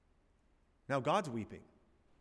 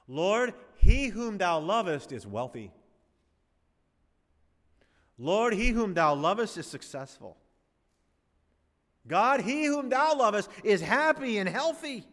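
mock prosperity prayer; 6 semitones higher, 7 dB louder than usual. Pastor mocking prosperity preachers to his congregation, hammed-up prayer. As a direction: lay it on thick like a TV prosperity preacher. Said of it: "how would you finish verse three".

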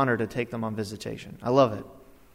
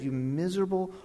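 indignant rebuke building to a loud finish; angry rant; 3 semitones higher, 6 dB louder than usual. Retold or imitated. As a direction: scold them, then erupt on the last words. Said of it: "there's time I am angry".

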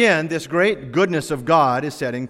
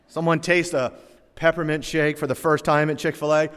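normal talking voice

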